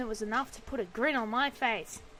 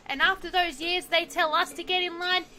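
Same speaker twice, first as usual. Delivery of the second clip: louder, higher heated rant; angry rant; 6 semitones higher, 6 dB louder than usual. Acted. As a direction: vent it hotly. Angry driver rants.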